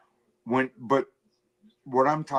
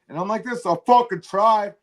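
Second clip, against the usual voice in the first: much higher, half-shouted retelling; high mock rant; 10 semitones higher than usual. Host teases his cohost about the mic, in a high mock squeal. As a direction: squeal the story out in mock outrage.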